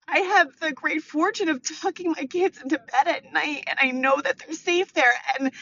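emotional. Real, not acted. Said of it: "I'm getting so emotional".

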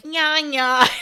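squeaky playful "nya nya"; silly mimic noise. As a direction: imitate a cartoon critter, playfully. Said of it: "I'm trying to mimic what you're doing".

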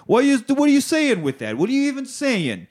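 high, fast exasperated mock Leon; rising into a high-pitched, baffled whine. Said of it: "And Leon's like".

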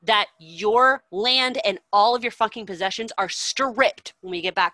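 loud, angry telling-off of cowards; furious rant. Retold or imitated. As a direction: chew the soldiers out, full of scorn. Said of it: "he's just, like, furious".

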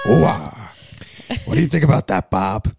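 lightly voiced Al Pacino, rambling and hoarse-free; Al Pacino impression. Chatting to Bob about having kids, in a lightly voiced Al Pacino. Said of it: "Pellegrino is Al Pacino".

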